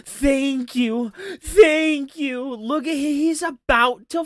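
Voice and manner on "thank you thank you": mocking the streamer's near-tears; mock teary thanks. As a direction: fake a tearful thank you. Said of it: "He's like".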